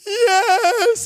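high wailing yes, half sob, half shout; imitating his son bursting into tears; mock crying yes. Dad imitating son's tearful yes to dad's question. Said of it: "Are you gonna cry?".

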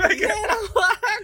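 pained laugh, voice tight from the burn; forcing words out after a harsh sip; strained after a strong drink. Real, not acted. Strained face after strong whiskey.

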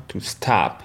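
American stop; "stop" with an O that sounds like A, "stahp"; American English. Shown as a demonstration. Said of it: "En américain". (en américain, "stop" avec un O proche du A)

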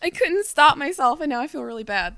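mock apology. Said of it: "That's what the second envelope would say".

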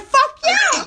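high-pitched eager agreement; retold enthusiasm. Woman egging Frank on, high gleeful approval. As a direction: replay an emphatic yes, voice way up.

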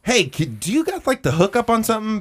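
high-pitched call at ordinary volume; mock yell down from a balcony; lightly acted calling out; retold calling down. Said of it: "yelled down to him".

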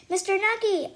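loud happy shout of his name; excited yell. Acted. Girl spotting her friend and yelling happily. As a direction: call to him joyfully. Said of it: "I yell".

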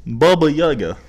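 "Baba Yaga" in a put-on Russian accent. Shown as a demonstration. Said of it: "Let me do it".

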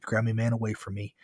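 plain reading voice

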